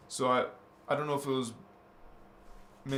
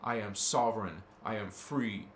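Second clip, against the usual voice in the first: mantra recital; 4 semitones lower than usual. Shown as a demonstration. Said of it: "it is".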